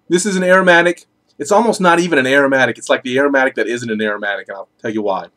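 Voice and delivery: talking around pipe stem; pipe in mouth. Real, not acted. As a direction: teeth clenched on pipe. Seen 0: Pipe held in hand until 1.1; clenched in teeth from 1.5 on.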